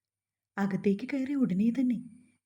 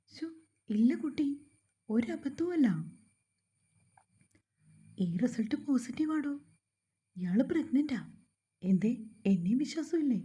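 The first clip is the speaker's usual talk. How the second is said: a lightly voiced lady doctor, higher, reassuring; kind doctor; 3 semitones higher than usual. Doctor telling an anxious young wife she's really pregnant, lightly higher reassuring voice. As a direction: gently brush off the patient's doubt, pitched up.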